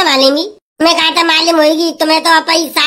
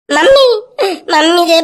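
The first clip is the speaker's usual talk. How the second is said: put-on child calling out; 3 semitones higher, 3 dB louder than usual. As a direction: yell for mummy from the back seat. Child yells for mother in car.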